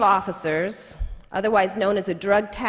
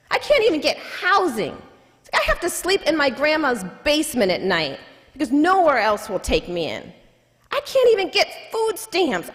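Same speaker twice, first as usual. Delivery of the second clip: frustrated plea. Retold or imitated. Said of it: "he becomes frustrated".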